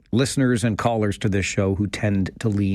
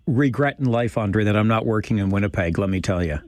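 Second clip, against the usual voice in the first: mock regret, lightly sarcastic. Real, not acted. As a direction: feign a great regret, tongue in cheek. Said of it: "I was being sarcastic about Winnipeg".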